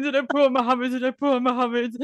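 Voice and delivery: high, mortified question; horrified asking. Retold or imitated. Patient asking husband about the doctor, high mortified question. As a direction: ask it in disbelief. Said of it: "That's what I was going".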